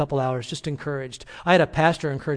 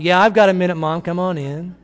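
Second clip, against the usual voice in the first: much louder call through the door, a bit higher; son calling out; 4 semitones higher, 7 dB louder than usual. Retold or imitated. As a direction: shout it before she reaches the door. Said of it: "the son called out".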